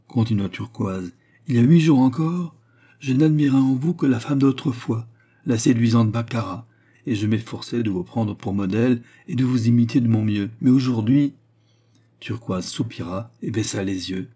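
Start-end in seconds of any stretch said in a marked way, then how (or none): 1.5-11.3 raised, emphatic confession; acted impassioned confidante; fervent young admirer. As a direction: gush with mild theatrical admiration. Turquoise confesses her admiration.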